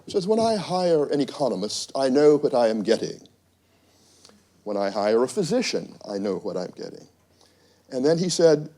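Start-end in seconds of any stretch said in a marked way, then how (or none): 0.3-7.1 imitated English accent, deliberate and emphatic; measured put-on English accent. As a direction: play the British executive, English accent. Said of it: "with that English accent".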